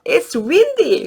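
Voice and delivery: high, loud, very slow read-aloud; storybook reading. Shown as a demonstration. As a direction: read it to a child with big expression. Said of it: "막 windy 할 때도요". (높고 크게, 아주 천천히 동화 읽기)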